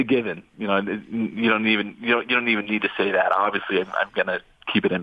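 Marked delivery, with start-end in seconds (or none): none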